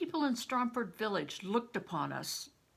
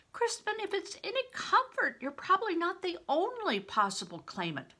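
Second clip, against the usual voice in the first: put-on urgent old widow; 5 semitones higher than usual. Widow warning Crispin his blood means death, urgent and rising. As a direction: make him see the danger.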